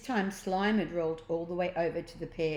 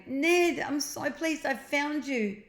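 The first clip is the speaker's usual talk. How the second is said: higher, relieved sister; Jemima, relieved; 8 semitones higher, 4 dB louder than usual. A narrator's reading. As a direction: glad to find him.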